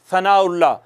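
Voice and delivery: सनाउल्ला with a sharp whistling s; wrong, whistled s sound; wrong hissing s. Shown as a demonstration. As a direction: hiss the s in सनाउल्ला. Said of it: "सनाउल्ला नहीं कहना".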